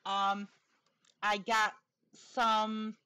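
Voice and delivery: whistling s from a new dental plate; talking with a slight lisp around a tooth. Real, not acted. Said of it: "excuse the lisp I've got".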